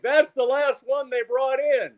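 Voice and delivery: high, drawn-out mock yell; retold yelling. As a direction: yell it back slowly across the store. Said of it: "and now he's yelling".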